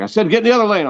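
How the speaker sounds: mock, shrill, very high grouchy yell. Retelling a dad's directions during a student driving lesson, imitating him yelling. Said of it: "will you stop yelling at me?".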